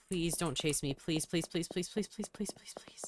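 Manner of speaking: rising, fading whispered please; frightened whispered pleading. Real, not acted. Player fleeing in fear, whispering pleas. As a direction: beg in a shrinking whisper. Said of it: "I am still so scared".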